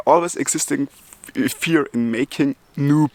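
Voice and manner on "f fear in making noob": real stutter on "f-"; catching on "f-" of "fear". Real, not acted. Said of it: "you hear it first person, I stutter".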